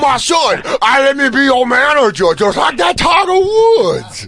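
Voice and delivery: high, shouted mock dad voice, stretched at the end; imitating dad. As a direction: ham up an overeager father pitching himself. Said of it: "He was like".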